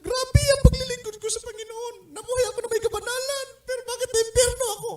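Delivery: high, wailing voice of a weeping elder; crying elder. Retold or imitated. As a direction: wail it out like a man who can't accept hell. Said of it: "Iyak siya ng iyak".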